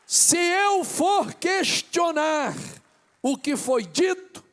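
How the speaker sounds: loud, high, impassioned preacher shouting to the church; fervent sermon climax, nearly shouted; preaching at full force. Acted. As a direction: build to fiery pulpit preaching, hammering each phrase.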